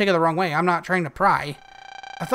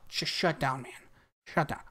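deflated; 4 semitones lower, 12 dB quieter than usual. Real, not acted. Deflated after rejection.

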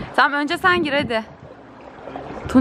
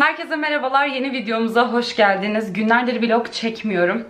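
out of breath. Real, not acted. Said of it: "Ay, nefes nefese kaldım".

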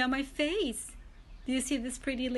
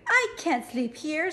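ladybug voice; 4 semitones higher, 3 dB louder than usual. Acted. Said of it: "said the lazy ladybug".

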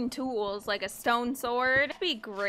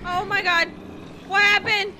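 higher, louder, stunned repeats; real shock after dying; dazed oh my god; shocked disbelief; 7 semitones higher, 3 dB louder than usual. Real, not acted. Killed and confused.

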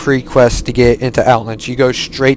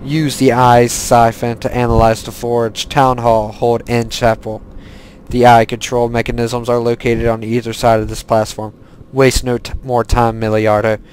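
put-on lightly accented Lich King voice, measured and even; solemn quest read in a put-on villain accent; put-on Death Knight accent. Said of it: "I do actually like talking in that accent".

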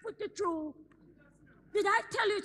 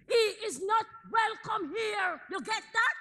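stern shout. Acted. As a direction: lay down the law, word by word. Mother forbids boyfriend in house.

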